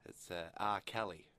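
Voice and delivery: low, halting politician impression; Tony Abbott. Caller claims to be a singer, light Tony Abbott impression. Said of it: "you sound a lot like Tony Abbott".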